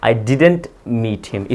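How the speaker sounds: each word slow and distinct; slow model sentence. Shown as a demonstration. Teacher gives students the English question, slowly. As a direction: dictate the question clearly. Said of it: "negative में बोलूँगा मैं".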